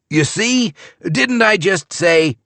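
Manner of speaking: high, exasperated I-told-you-so; exasperated scold. A narrator's reading. Father scolding daughter at buffet, exasperated. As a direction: scold her for dropping it.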